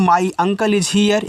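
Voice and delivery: very slow, carefully pronounced English; slow model sentence. Shown as a demonstration. Hindi teacher models English slowly for students. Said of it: "आप बोल सकते हो".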